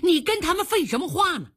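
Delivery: impatient inner voice, building; acted impatience. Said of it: "早就等得不耐烦了".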